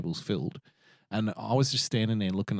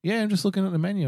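retold reply; 11 semitones higher, faster than usual. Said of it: "And I'm like".

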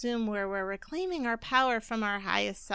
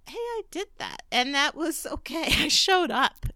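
cheerful self-praise; 6 semitones higher, 4 dB louder than usual. Pretend. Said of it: "or even just acknowledge".

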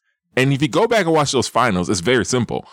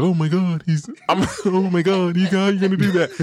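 high-pitched mock protest; outraged fans; 7 semitones higher than usual. Host mimics people reacting to his overrated call, high mock outrage. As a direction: imitate scandalized objectors in a raised pitch. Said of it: "people are like".

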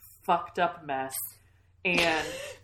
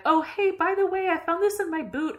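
casual Etta; 11 semitones higher, 5 dB louder than usual. Retold or imitated. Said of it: "And Etta's like".

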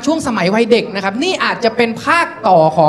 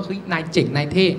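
hushed admiration; 6 semitones lower, 6 dB quieter than usual. Acted. Classmates to kid who walks to school alone, awed.

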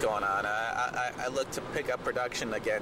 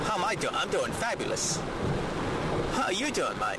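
higher British caller voice; Michael Caine over speakerphone; 5 semitones higher than usual. Pretend. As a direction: play the posh caller on speaker. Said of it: "Sir Michael Caine".

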